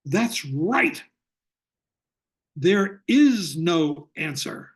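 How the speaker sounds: slow, emphatic mock bellow; a slowed, drawn-out retold roar. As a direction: boom it out slowly like the teacher did. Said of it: "turns to me and bellows".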